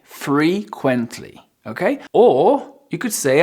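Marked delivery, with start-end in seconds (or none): 0.0-1.4 FREQUENTLY slowly, syllable by syllable; careful, stretched FREQUENTLY; slow modelling. Shown as a demonstration. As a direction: draw out FREQUENTLY for learners. Teacher models the new word.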